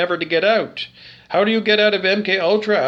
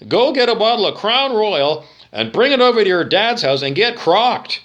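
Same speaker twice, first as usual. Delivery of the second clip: mock commercial voice. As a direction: sell the booze like a cheesy radio ad. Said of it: "it's a commercial".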